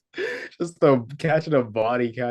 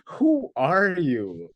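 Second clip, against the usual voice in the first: drawn-out, higher-pitched disbelief; incredulous reaction; 6 semitones higher, much slower than usual. Retold or imitated. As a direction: imitate a baffled stranger, stretching it out. Party guest reacts to odd traveller.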